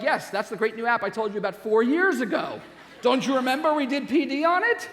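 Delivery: a hammed-up cry of I told you so; exasperated reminder. To a colleague who forgot the app, a mock exasperated shout.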